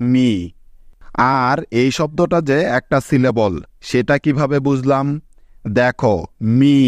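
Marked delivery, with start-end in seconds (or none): 0.1-0.3 "মি" spoken clearly with a long ee; long ee demo. Shown as a demonstration. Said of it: "এম ই মিলে হয়ে গেল". 6.6-6.8 "মি" said as one unbroken syllable; one-syllable demo. Shown as a demonstration. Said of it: "একবারে উচ্চারণ করতে পারছি".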